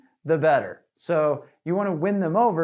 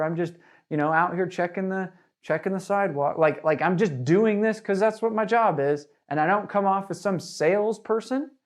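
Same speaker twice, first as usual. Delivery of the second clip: casual info guy. Shown as a demonstration. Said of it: "with the attitude like this".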